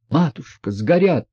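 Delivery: high, wailing cry of dismay. A narrator's reading. Lebedev wailing over the burning money, high wail. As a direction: wail at the loss. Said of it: "вопил Лебедев".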